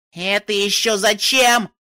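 slow, loud, high shout; shouting over wind. A narrator's reading. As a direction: yell it over the storm.

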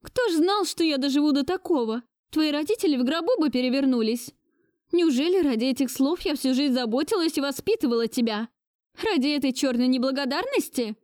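put-on high, wailing reproach of an old lady; lamenting grandmother. A narrator's reading. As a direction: bewail his ingratitude. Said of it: "причитая". (причитающая бабушка)

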